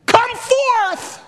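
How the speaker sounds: high, ringing shout; loud commanding cry. Acted. Jesus calling Lazarus from the grave, loud command. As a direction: call the dead out at full voice. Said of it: "he cried with a loud voice".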